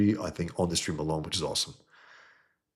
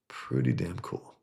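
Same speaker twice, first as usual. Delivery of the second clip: lower, slower "Pretty damn cool"; savored repeat; 4 semitones lower, slower than usual. Shown as a demonstration. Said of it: "pretty damn cool, guys".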